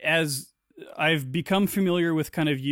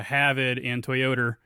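Rhode Island accent; 3 semitones lower, slower than usual. Shown as a demonstration. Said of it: "the R's go where they don't belong".

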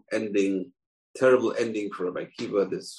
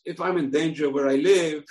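wary fish; 6 semitones higher than usual. Acted. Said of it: "the fish tells the fox".

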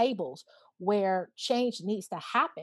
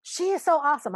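higher, enthusiastic retold praise; gushing praise; 6 semitones higher, 4 dB louder, faster than usual. Guest retelling her reply about Casey, gushing praise. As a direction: gush lightly about a friend.

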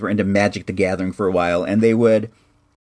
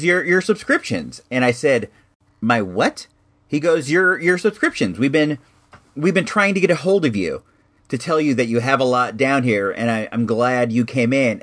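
store owner. Retold or imitated. Comic store owner Dan voiced.

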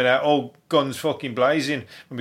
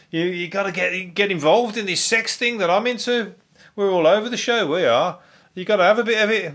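mock celebrity gushing; 6 semitones higher than usual. Mocking Gwyneth Paltrow's pitch.

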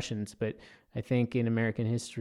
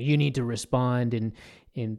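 stern army general giving orders; lightly voiced commanding general. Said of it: "that's my general voice".

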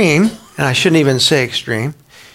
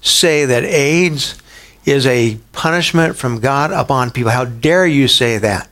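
mock outrage; slower than usual. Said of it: "railed against Billy Graham".

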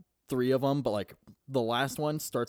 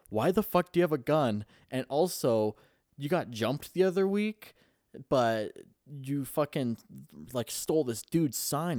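mock indignant scolding, higher pitched; retold angry boss; 4 semitones higher than usual. Boss firing his clown, mock outrage. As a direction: tell off an employee, half-playing it.

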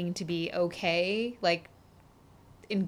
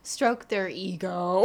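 slow "Stroke their ego" with EGO stretched out; deliberate, drawn-out "Stroke their ego"; drawn-out inflection; 4 dB louder, slower than usual. Shown as a demonstration. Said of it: "Downward inflection".

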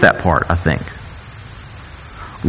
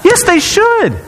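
emphatic; slower than usual. Real, not acted. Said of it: "emphatic reply".

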